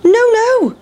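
high, loud refusal; shrill no from the pancake; pancake crying no. Acted. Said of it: "cried the big pancake".

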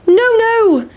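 sing-song refusal; pancake refusing. A narrator's reading. Pancake refuses the boys, high and squeaky. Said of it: "said the big pancake".

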